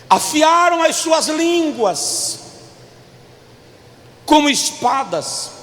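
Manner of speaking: slow, emphatic scripture proclamation; leitura bíblica enfática. Real, not acted. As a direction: declaim the psalm in drawn-out phrases. Reads scripture to the congregation. (leitura bíblica lenta e declamada)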